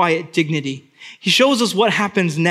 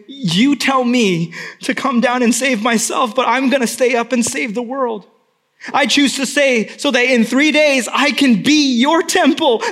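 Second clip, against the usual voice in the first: louder, higher impassioned declaration; voice of Jesus; 6 semitones higher, 4 dB louder than usual. Pretend. Jesus speaking to his people, impassioned and resolute. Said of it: "A heart that says to his people".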